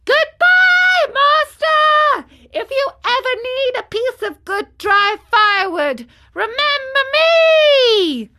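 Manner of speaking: very high, full-voiced taunting shout. A narrator's reading. Marionette far out at sea calling his master, loud shout. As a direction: holler it far, stretching the last words. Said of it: "called out louder than before".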